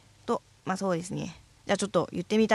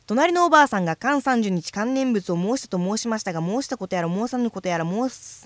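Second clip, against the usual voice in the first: all in one breath. Shown as a demonstration. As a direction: drive through the twister without pausing. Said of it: "一息で".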